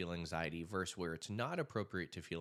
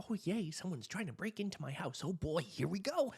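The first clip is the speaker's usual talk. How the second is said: higher, falsely delighted voice; mock cheerful; 10 semitones higher than usual. Speaker mocking someone happy about a break-in, sarcastic. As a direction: pretend to be thrilled by a break-in.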